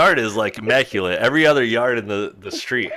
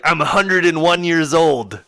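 imitated old Dutchman, pitched up; Dutch accent; 5 semitones higher, 3 dB louder than usual. Old man tells the driver his age, Dutch accent. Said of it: "that's definitely what the accent sounded like".

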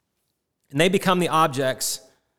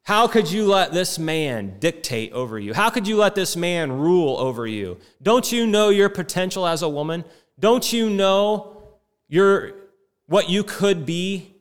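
condescending scorn; 4 semitones higher, 4 dB louder than usual. Retold or imitated. Voicing the scornful nurses' questions.

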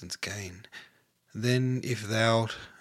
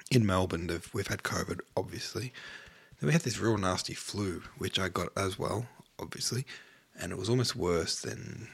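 ordinary talk

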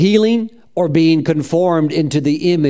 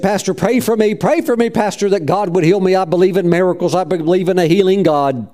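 tearful plea; 3 semitones higher than usual. Retold or imitated. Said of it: "he came to my office in tears".

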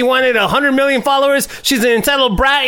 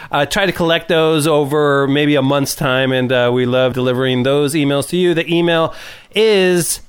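low, steady housekeeping read; show host announcement; 9 semitones lower than usual. Real, not acted. Host telling listeners how to reach the show, low steady read. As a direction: read out the contact details low and evenly.

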